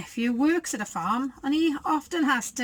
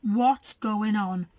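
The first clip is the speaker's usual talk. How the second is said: animals asking; 2 semitones lower, slower than usual. Acted. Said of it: "animals asked".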